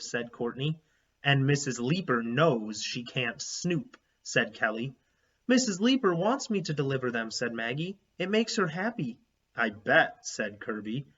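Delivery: put-on steady read-aloud narration for children; story narration. A narrator's reading. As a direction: read the chapter to the class. Reads chapter book aloud to class.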